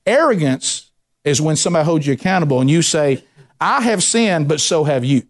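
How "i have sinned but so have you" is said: arrogant retort. Shown as a demonstration. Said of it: "See, that's arrogance".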